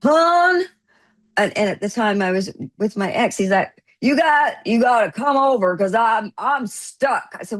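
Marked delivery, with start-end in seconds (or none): 0.0-0.6 high, drawn-out call; retold calling out. Stuck man phoning the woman for help, calling out. 4.0-7.3 mock-urgent plea, slightly higher; retold plea. Stuck man phones for help, mildly pleading.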